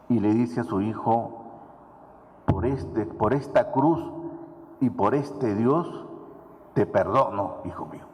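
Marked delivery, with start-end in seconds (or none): 2.5-8.1 slow, solemn vow that fades to a hush; solemn forgiveness. Retold or imitated. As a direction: swear it slowly on the cross, then let it drop away. Mother forgives son on the cross.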